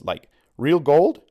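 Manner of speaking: slow, high, loud wonder; a kid dazzled by treasure; excited disbelief. A narrator's reading. Rico asks the leader about gold, wide-eyed.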